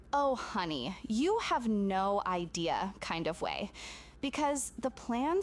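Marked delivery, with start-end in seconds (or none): 0.1-2.9 knowing whisper. Retold or imitated. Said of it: "but in a, like, ... kind of way".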